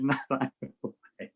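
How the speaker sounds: knowing, teasing denial; sly wink. Retold or imitated. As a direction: deny it with a wink in the voice. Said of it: "I winked and said".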